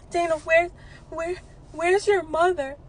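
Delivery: searching, lost; confused stepfather. Retold or imitated. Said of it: "This is what he says to me".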